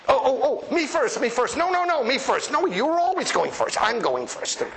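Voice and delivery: pushy and excited, me first!; mock excited squabble. Churchgoers squabbling to share stories.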